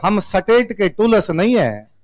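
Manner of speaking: slow, measured quote of a film villain; film villain line. Retold or imitated. Teacher quoting a film gangster's line, slow and measured. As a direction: read it slowly like the gangster in the movie. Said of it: "गुंडा बिट्टा वो कहता है".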